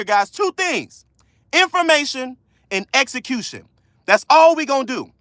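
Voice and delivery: passionate, emphatic near-yell; real yelling. Real, not acted. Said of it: "Why are you yelling?".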